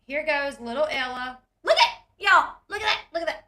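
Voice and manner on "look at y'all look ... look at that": louder, higher gushing; can't contain how cute it is; excited gushing. Real, not acted. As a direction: fan reacting to a cute moment. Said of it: "excited about cute clip".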